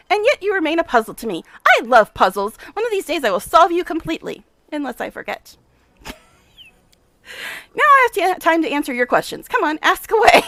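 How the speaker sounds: lightly played brisk, self-important scientist; a touch of the mad professor, pleased; eccentric scientist. Nenio intrigued.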